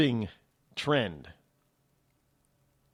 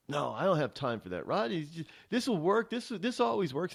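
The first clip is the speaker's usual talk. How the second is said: higher-pitched mock pill-taker's excuse; dismissive excuse; 3 semitones higher than usual. Host mimicking someone who wants the pill, dismissive. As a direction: voice a brush-off, pitched up.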